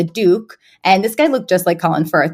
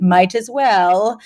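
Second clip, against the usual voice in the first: slow, understated mock-English reply; drawn-out upper-class English understatement; reserved British; 2 semitones higher, much slower than usual. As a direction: imitate a reserved posh British partner. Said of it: "like, reserved way".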